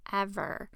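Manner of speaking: "ever" set apart after a pause; pause, then land firmly on "ever"; emphatic, separate "ever"; stress on EVER. A narrator's reading. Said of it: "I emphasize the last word".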